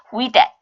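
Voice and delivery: "with that" joined with a single th sound; linked pronunciation. Shown as a demonstration. Teacher showing learners how to blend the words, linked pronunciation. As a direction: merge the two th sounds in "with that". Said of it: "연음시키면 동일한 발음이에요".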